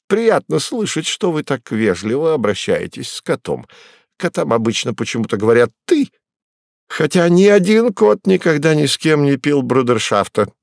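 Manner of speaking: a cat purring with vanity; flattered cat. Acted. Cat voiced by reader.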